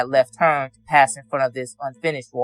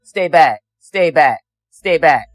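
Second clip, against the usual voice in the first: raised, urgent stay back; urgent warning shout; 5 dB louder, slower than usual. Retold or imitated. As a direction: call out a firm warning. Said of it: "I said".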